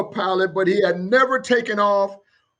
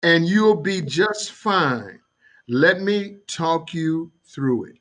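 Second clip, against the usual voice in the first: calm voice; 3 semitones lower than usual. Acted. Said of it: "a very calm voice gets on".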